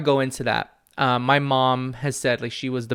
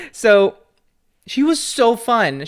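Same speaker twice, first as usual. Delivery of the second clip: laughing through words; 9 semitones higher, 9 dB louder, slower than usual. Real, not acted. Still laughing after the memory.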